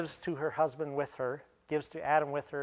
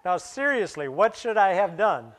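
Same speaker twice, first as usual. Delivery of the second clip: laughing through the question; giggling, can't keep a straight face; 3 semitones higher, 6 dB louder than usual. Real, not acted.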